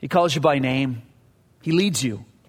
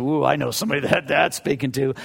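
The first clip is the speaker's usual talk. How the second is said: smug aside; 2 semitones lower than usual. Retold or imitated. Mocking his own smug reading.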